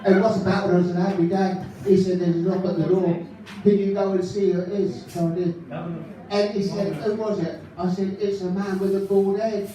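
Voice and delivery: lightly voiced chirpy northern comic telling gags; a light take on a cheery stand-up comic; Ken Goodwin impression. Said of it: "for Ken Goodwin, ladies and gentlemen".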